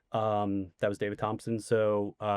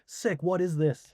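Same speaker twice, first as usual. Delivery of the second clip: amazed friend; 6 semitones higher than usual. Retold or imitated.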